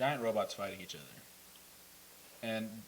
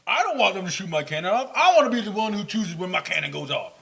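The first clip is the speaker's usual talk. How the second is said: whiny robot voice; 7 semitones higher, 10 dB louder than usual. Retold or imitated. Voicing a whiny Decepticon tank.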